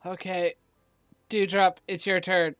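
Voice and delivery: low, reluctant handover of the turn; pained reluctance. Real, not acted. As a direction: hand over the turn as if it hurts. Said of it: "You sound like that hurt so bad".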